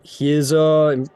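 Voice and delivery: a hint of a firm, formal knight. Knight defending his employer to adventurers, lightly voiced formal knight. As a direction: declare it with measured emphasis.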